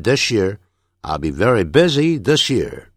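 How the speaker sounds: "this year" linked as "thish-year" in the sentence; linked sound change. Shown as a demonstration. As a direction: run "this year" together with a sh. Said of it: "有变音的现象". (句中连读this year)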